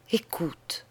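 voiceless whisper of écoute. Acted. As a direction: breathe it without voice. Dying sister urges her sister. (écoute chuchoté)

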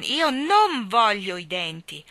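put-on loud, slow angry child; a furious little boy; furious roar. A narrator's reading. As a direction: roar it in fury. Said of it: "ruggì furioso John".

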